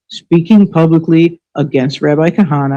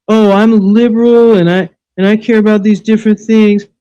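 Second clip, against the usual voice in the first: higher, sing-song mock of a smug liberal; 4 semitones higher than usual. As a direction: parody their self-righteous tone. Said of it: "You're saying that".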